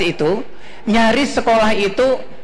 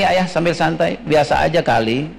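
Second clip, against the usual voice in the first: unimpressed shrug; 6 semitones lower than usual. Retold or imitated. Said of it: "Dia akan mengatakan begini".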